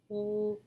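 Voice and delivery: W and ig said as separate sounds, high and soft; student sounding out W-ig; segmented sounds. Shown as a demonstration. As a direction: split wig into W-ig. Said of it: "Student then responds".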